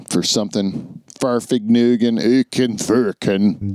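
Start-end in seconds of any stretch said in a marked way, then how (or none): 1.2-3.8 slow mock German gibberish; fake German. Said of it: "It's, like, German".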